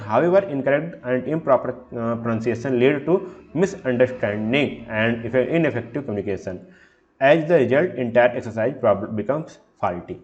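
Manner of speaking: reading the slide slowly and deliberately; slow, careful slide reading; slow read-aloud. Shown as a demonstration. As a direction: dictate each word of the definition.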